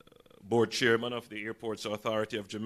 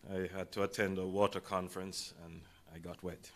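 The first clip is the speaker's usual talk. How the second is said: hoarse, raspy speaking voice; 3 semitones lower, 5 dB quieter than usual. Real, not acted. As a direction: talk through a raspy throat. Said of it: "forgive my raspy voice".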